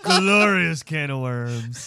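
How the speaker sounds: drawn-out gloating. Real, not acted. Teasing the guest.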